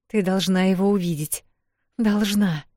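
frantic, repeating herself; manic insistence. Acted. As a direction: insist like a woman possessed. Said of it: "как безумная твердила Вэл".

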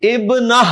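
ابنہ split as ib-nah, ending on h; final h sound. Shown as a demonstration. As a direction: end ابنہ with h, never a t. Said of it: "آپ نے ہا کی آواز نکالنی ہے".

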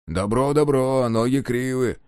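slow, offhand taunt, "ноги" falling; lazy mockery. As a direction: drop the jibe lazily, not bothering. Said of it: "лениво обронил Дакука с насмешкой".

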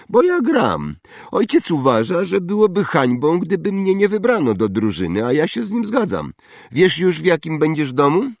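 high, loud bragging schoolboy; spoiled boasting boy. Acted. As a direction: show off like a rich brat. Draco boasting. (chłopiec przechwala się, wysoko i głośno)

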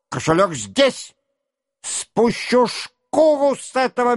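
high, heated tirade; angry shout. A narrator's reading. Denisov refusing Rostov, heated and shouting. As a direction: rage on, slowing at the threat. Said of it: "закричал он".

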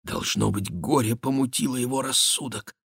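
тихо и тревожно, чуть выше; испуганным полушёпотом; испуганно. A narrator's reading. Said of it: "испуганно ответила Жанна". (испуганно и тихо)

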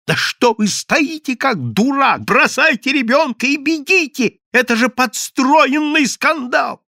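high, loud frantic scolding; beside himself. A narrator's reading. Yevsey ordering his friend to flee the staged scandal, frantic. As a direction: burst out in exasperated urgency. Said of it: "Евсей Львович был вне себя".

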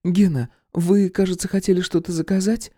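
voiced brunette Viktoria. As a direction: nudge him to order. Viktoria to Gena.

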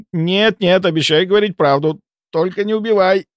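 high, begging, voice sinking; crestfallen plea. A narrator's reading. Malkov promising the truth, high dejected plea. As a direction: plead with a sinking heart. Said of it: "упавшим голосом произнёс он".

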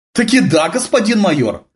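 high, tense, loud reply; strained little voice. A narrator's reading. Eva replies from the darkness, strained little voice. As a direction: answer in a small strained high voice. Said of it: "натянутый голосок".

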